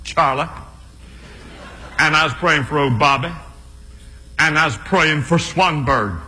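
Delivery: Billy Graham impression. Comedian as Billy Graham telling his congregation about prayer, with long pauses. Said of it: "I'll just break into Billy Graham".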